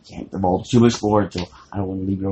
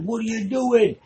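shocked sailors; 13 semitones higher than usual. Retold or imitated. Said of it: "And they're like".

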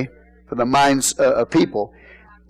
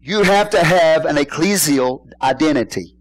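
over enunciating. Shown as a demonstration. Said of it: "I'm gonna say this slowly so you".

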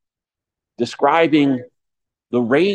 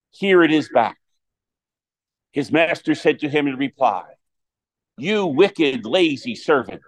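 gospel reading; 2 semitones higher than usual. Acted. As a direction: proclaim it from the pulpit.

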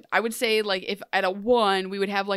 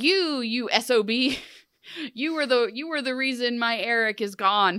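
higher-pitched, hammed-up outrage; mock accusation; 4 semitones higher than usual. Ariel accosting Hook over her missing Eric, mock outrage. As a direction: imitate a wronged woman confronting the culprit.

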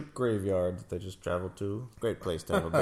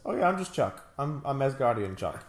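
Zachary Levi impression. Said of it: "I like Zachary Levi".

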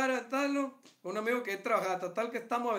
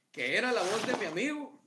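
words breaking into laughter; cracking up mid-sentence; laughing; 4 semitones higher than usual. Real, not acted. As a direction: laugh through the punchline. Laughing while telling.

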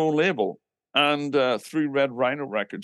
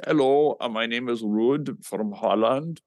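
lightly put-on Dutch accent, measured delivery; mock Dutch accent on the phone. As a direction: imitate a polite Dutch caller. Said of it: "this guy with a Dutch accent".

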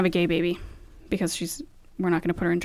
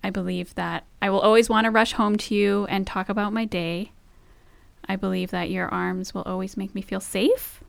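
heartfelt vows. Real, not acted. Reciting wedding-style vows.

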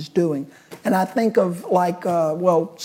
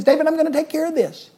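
God reassuring; 9 semitones higher, much faster than usual. Retold or imitated. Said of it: "What he's saying is".

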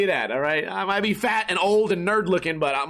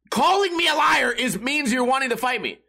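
higher, pushier retold comeback; raised, indignant comeback; heated retort; 4 semitones higher than usual. Retold confrontation in bar.

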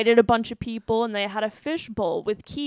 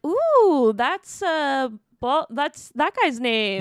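high, louder excited flirting; flirty neighbor voice; 4 semitones higher, 4 dB louder, slower than usual. Retold or imitated. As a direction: ooh it out like the hot mom. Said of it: "She's like".

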